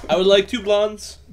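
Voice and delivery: high, loud, slow posh request; mock room service order. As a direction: order it like a pompous guest.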